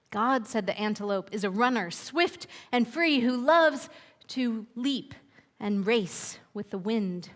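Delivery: gentle read-aloud storyteller pacing; unhurried picture-book narration with lingering pauses; storybook narration. A narrator's reading. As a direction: read it like a bedtime tale to children.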